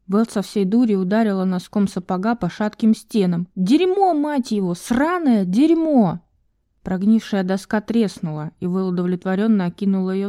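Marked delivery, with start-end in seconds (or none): 3.5-6.2 high, slow, dragged-out curses; furious swearing. Acted. Val kicking the boards, cursing furiously. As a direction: hammer each curse down hard.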